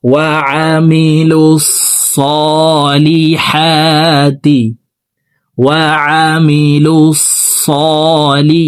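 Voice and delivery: সলিহাতি with a thick sad, not sin; heavy sad. Shown as a demonstration. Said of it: "সালিহাতি এভাবে বলা যাবে না". (সিন নয়, মোটা সদ)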